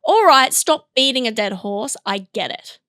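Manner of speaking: mock weary dismissal trailing down; fed up, closing the argument; exasperated. Ending a mock argument, exasperated. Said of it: "That was a full scene right there".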